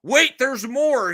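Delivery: slow, high TV pitchman; infomercial voice. Pretend. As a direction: sell it like a late-night ad. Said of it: "This sounds like an infomercial".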